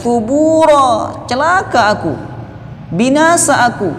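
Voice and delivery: very high, anguished wail; desperate cry. Acted. Sinner crying out in despair, very high wail. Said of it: "akan berteriak".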